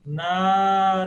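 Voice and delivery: Narayan punched loud, final na cut; mock clipped Narayan. Shown as a demonstration. Teacher exaggerating the wrong clipped name. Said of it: "não fala o último na".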